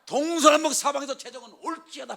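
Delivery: 재정은 올지어다 proclaimed high and loud from all four directions; booming 올지어다 with a falling end; shouted decree. Shown as a demonstration. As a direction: call 재정은 올지어다 out like a prophet. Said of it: "막 이러는 거예요".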